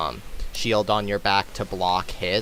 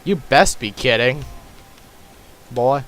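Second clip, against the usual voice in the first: put-on Southern accent; 6 dB louder than usual. Player answers a friend's joke in a sudden Southern accent. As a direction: put on a mock Southern scolding. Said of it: "I don't know why I'm suddenly southern".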